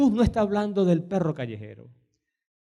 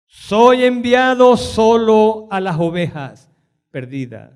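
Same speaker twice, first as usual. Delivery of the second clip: Jesus' firm reply; 8 dB louder, slower than usual. Retold or imitated. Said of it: "Y él respondió".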